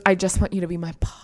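quick, whispered creep voice; creepy caller. Retold or imitated. Imitating the caller who wants a boss, creepy whisper. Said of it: "He's just so creepy".

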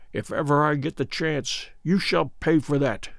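quiet vow of payback; muttered under breath. A narrator's reading. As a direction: mutter it beneath your breath. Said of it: "Good mutter beneath his breath".

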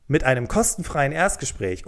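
kostenfreien leaned on a little harder; stress on kostenfrei. Real, not acted. Podcast host pitching a free first talk, light stress on kostenfreien. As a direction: give kostenfreien a light push. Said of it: "die Betonung liegt auf kostenfrei".

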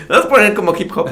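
a hint of a Cuban Caribbean Spanish accent. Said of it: "un acento caribeño".

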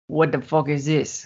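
gruff mock Texas cowboy; a mild Texas cowboy accent. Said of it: "very strong Texas accent".

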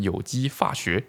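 put-on 有机化学 with 化 said as fa, Hakka accent, slow. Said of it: "会自动把喝念成fơ".

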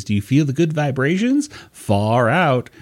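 a hint of a dreamy sixties hippie. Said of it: "turn into kind of like a hippie".

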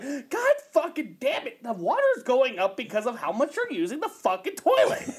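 lightly voiced ranting landlord; impression of Mark. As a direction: grumble like the fed-up landlord about the water bill. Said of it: "such a good impression of Mark".

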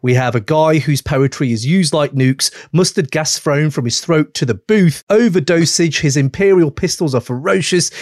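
punchy announcer read over the beat; hype radio host intro. Acted. Host hyping two rap legends on air, announcer style.

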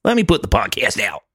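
high, put-on goofy buddy voice, way up; mocking impression of a guest. Friend mocks the guest's voice, high goofy pleading. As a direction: ham up a dopey pleading dude, high and sing-song. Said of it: "That's not the way he talks".

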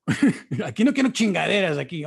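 imitating dad. Dad warning his kids about condoms, mock-stern. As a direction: play his dad laying down the law with a hint of stern father. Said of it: "Okay, Dad".

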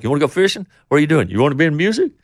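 high, eager volley of questions; mock chatty small talk. Guest mimicking the chat the singer never made, high and mock-eager. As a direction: pitch it up, loud and chatty, as a parody.

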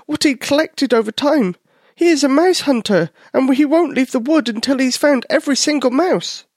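high, small mouse telling what happened; steady high mouse voice, a bit worried; little mouse voice. Acted. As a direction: voice a nervous little mouse reporting back. Tyler the mouse tells story.

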